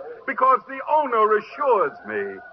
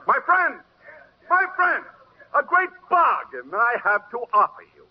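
showman mocking the donkey. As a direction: play the crowd for laughs. Dealer mocks donkey to crowd.

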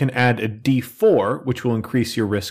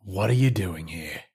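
Pauku; 2 semitones lower, 3 dB quieter, slower than usual. Acted. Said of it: "So that's Pauku. He's kind of a hothead".

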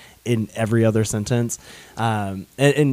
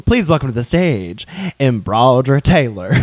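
mock emcee introducing a drag queen, a bit louder; drag host announcement; 3 dB louder than usual. Host friend jokingly introduces a drag queen, in an announcer voice. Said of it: "that's a drag name".

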